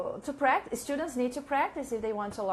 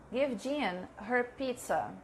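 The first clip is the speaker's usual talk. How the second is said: slow model sentence; slower than usual. Shown as a demonstration. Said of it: "I don't know how to say this".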